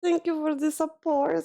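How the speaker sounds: high, choked-up gratitude; real tearful thanks. Real, not acted. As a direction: thank them while fighting back tears. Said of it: "Sorry if I'm a bit sensitive".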